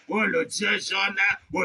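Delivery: ordinary talk, nothing marked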